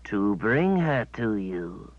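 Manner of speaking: slow, simple-minded creature voice; creature servant. Acted. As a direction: dull beast reciting orders.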